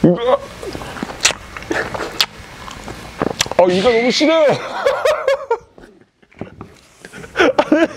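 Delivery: wincing while chewing; chewing food. Real, not acted. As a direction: mouth full while talking. Seen 0: Bun held at mouth, biting and chewing, grimacing throughout labelled words.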